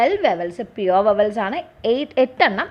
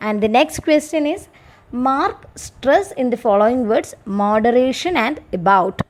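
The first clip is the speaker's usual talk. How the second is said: slow, measured reading of an exam question for students; slow dictation reading; much slower than usual. Acted. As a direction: read it out slowly, word by word, like dictating to a class.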